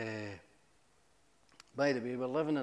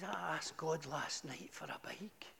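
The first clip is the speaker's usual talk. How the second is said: tearful whisper; 3 semitones higher, 6 dB quieter, slower than usual. Retold or imitated. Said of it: "he started crying".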